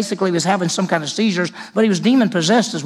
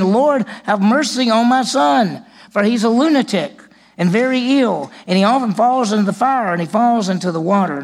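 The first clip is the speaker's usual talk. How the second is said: a father crying out for mercy; pleading father; 5 semitones higher, 4 dB louder than usual. Retold or imitated. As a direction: beg for your son's life. Father begging Jesus for his son.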